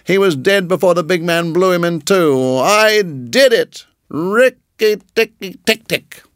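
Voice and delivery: high gloating mongoose; triumphant. Acted. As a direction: crow with triumph. Rikki triumphant.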